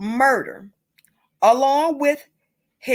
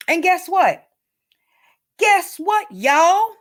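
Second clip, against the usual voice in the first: rising outrage; 5 semitones higher, 3 dB louder, slower than usual. Real, not acted. Building reveal to viewers.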